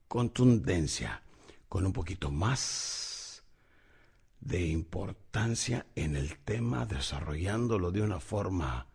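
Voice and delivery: slow, low, soft with pauses; slow weighty speech. Shown as a demonstration. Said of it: "debemos de aprender a bajar la voz". (pausado, grave y suave, con peso)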